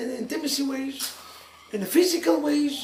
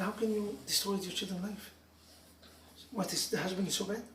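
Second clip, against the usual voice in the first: tearful plea; 5 semitones lower, 11 dB quieter than usual. Retold or imitated. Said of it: "I start crying".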